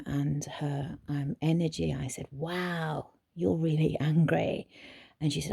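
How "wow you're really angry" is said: matching her volume. Retold or imitated. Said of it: "and matching Katie's volume and her, energy".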